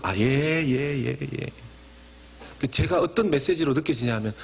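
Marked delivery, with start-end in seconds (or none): 0.0-1.5 slow, absent-minded yeses; lazy, distracted agreement; half-hearted. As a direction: brush it off without listening. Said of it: "건성으로".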